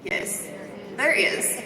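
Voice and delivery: breathy whispered there is, said to herself; answering her own question in a hushed whisper. Real, not acted. Coach to audience, whispering there is first. Quiet aside before restating.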